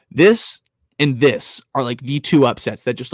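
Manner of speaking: loud, slow, emphatic; too loud for the mic; yelling into mic. Real, not acted. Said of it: "sorry if I'm yelling to my mic".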